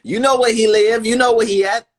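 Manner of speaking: loud, high taunting call-out; shouting. Real, not acted. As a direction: yell the dare at the crowd. Calling out, daring the listener.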